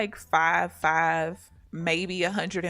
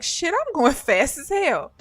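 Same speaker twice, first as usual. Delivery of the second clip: excited yell; 8 semitones higher, 5 dB louder than usual. Retold or imitated. Retelling the zip line ride.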